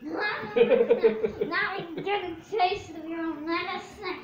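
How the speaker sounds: slow words through laughter; laughing. Real, not acted. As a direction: laugh while teasing back. Being tickled, laughing.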